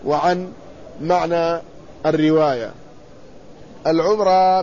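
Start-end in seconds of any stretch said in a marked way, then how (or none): 3.9-4.6 العمرة with silent m and long final ā; vowel demonstration. Shown as a demonstration. Lecturer spelling out the word's vowels, العمرة said al-ʿumrā. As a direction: say العمرة as al-ʿumrā, u after the ʿayn. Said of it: "بضم العين".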